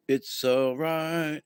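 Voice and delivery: drawn-out, steady and soothing; slow it right down to calm them; slow calm reassurance. Retold or imitated. Steadying a chaotic friend, slow and reassuring. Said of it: "And you go".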